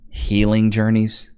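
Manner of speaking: slow, scornful repeat of healing journeys; mocking disbelief. Commentator mocking the wife's words, scornful and slow. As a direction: sneer at the phrase.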